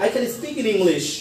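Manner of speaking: slow "I can speak in English", easing down on "English"; high-to-low tune. Shown as a demonstration. Teacher drilling a statement, slow falling "English". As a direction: start up, let "English" come down. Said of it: "সাউন্ডটা চড়া থেকে একটু নেমে যাবে".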